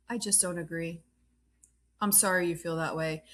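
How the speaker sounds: imitating unbothered indifference. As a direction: brush it off, as if unbothered. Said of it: "Meredith is just not unbothered".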